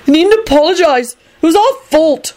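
high-pitched, eager reassurance; reassuring. A narrator's reading. Young man excuses the apologizing warlocks, reassuringly. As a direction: reassure them in a lifted, earnest voice. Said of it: "Neville told them reassuringly".

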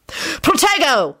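high, drawn-out spell yell. A narrator's reading. Lupin shields himself and Rosie, yelling. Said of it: "Lupin yelled".

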